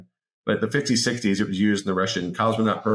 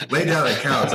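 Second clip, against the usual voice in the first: mock Russian command, said again with more punch; imitated Russian accent; 5 semitones higher than usual. Repeating the Russian coach's odd order in a stronger mock Russian accent. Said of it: "I hear this really thick accent in Russian".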